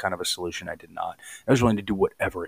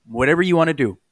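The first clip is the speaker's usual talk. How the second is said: emphatic; 6 semitones higher, 10 dB louder than usual. Real, not acted. Emphatic point.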